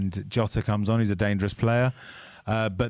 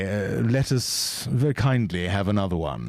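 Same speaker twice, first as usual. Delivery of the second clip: extra posh; 2 semitones lower than usual. Shown as a demonstration. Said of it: "Shall I be extra posh with it?".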